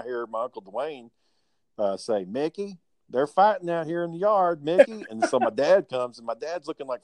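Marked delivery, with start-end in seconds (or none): 2.2-5.0 higher, calling across the yard. Retold or imitated. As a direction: summon Mickey urgently from a distance. Uncle calling dad to fight.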